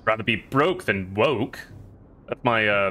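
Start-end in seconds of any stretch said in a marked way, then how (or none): 0.0-1.6 slow, badly faked British accent; poor British accent. Shown as a demonstration. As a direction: put on an unconvincing British accent, taking it slowly. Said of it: "that's my poor British accent".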